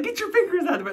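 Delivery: imitating her friend. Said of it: "She's like".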